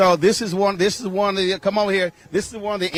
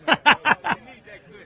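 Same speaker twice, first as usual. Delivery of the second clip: quick laugh; 8 semitones higher than usual. Real, not acted. Laughs after joke about guests.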